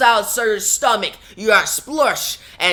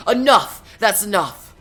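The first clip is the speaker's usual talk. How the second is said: angry shout. Acted. Alan shouts at Surtur.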